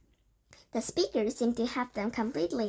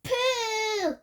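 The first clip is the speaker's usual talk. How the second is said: high, loud, shrill cry of disgust; 11 semitones higher, 5 dB louder than usual. A narrator's reading. Witch audience crying out in disgust at children. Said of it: "cried the audience".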